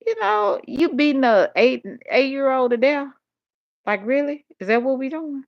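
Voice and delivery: high, outraged questioning; really, is this what we do now; appalled, incredulous; indignant disbelief. Real, not acted. Outraged at child abuse.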